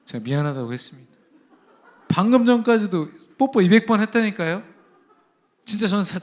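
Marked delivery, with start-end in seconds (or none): 2.1-6.2 real laughter, higher and louder; laughing. Real, not acted. Pastor telling the congregation about his daughter, laughing. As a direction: laugh through the words in disbelief.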